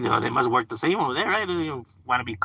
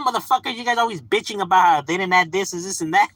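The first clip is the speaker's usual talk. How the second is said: high-pitched mock exasperation; exasperated retort; 8 semitones higher, 3 dB louder than usual. Acted comeback to fans who always complain, exasperated retort. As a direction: fire back at the complainers, half in jest.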